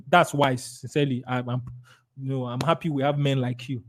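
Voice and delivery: soft, low, confiding praise; sincere approval. Shown as a demonstration. Seller praising client for consulting wife, softly sincere. Demonstrated soothing reply to client.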